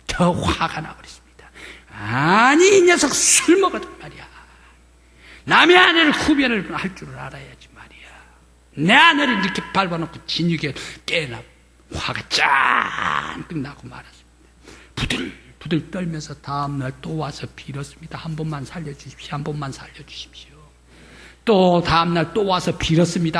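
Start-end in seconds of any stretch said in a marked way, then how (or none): 1.9-11.4 높고 크게 꾸짖으며; 버릇없는 놈을 혼내듯. Retold or imitated. 화난 면장님이 호통. 18.2-20.5 숨죽여 빌며; 용서를 구하며 속삭이듯. Retold or imitated. 남편이 빌며 애원.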